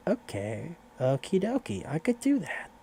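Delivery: lightly voiced high, squeaky okie dokie; nervous yes-man voice climbing high; retold eager agreement.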